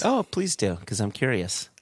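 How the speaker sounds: sarcastic. Pretend. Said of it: "Said no one ever".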